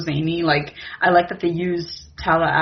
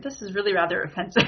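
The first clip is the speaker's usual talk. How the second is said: mock British offense; faster than usual. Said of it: "He's like".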